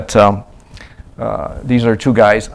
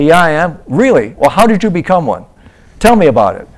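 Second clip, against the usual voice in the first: loud, much higher pushy interrogation; aggressive questioning; 7 semitones higher, 6 dB louder than usual. Retold or imitated. Missionary imitating evangelist grilling a believer, loud and high. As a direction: press him hard about his faith. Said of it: "If they say".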